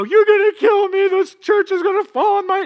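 loud, high hammed-up panic; mock panic. Sinner caught by God in church, hammed-up panicked yelling. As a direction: yell it as if doom is about to fall.

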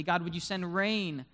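impassioned pleading that builds; desperate, passionate prayer. Acted. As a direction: beg God with mounting urgency. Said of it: "he asks God desperately, passionately".

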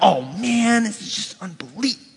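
grumbled complaint fading very soft; mock exasperation. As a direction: act out reluctant griping, trailing away. Acting a reluctant complainer.

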